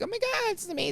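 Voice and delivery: overjoyed fake-ad enthusiasm; mock poster people. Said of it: "they're like".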